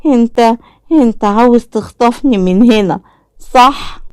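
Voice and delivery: high, halting scared accusation; fearful child. A narrator's reading. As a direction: realize he wants to kidnap you. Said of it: "بص عليه بخوف وقال".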